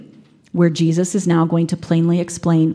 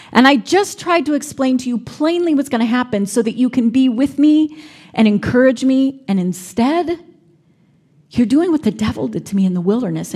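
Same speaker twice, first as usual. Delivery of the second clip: understated hurt disappointment, speaking to a friend; gentle dismay, plainly pleading; dismayed Jesus. Shown as a demonstration. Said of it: "I wonder if maybe Jesus' tone was one of dismay".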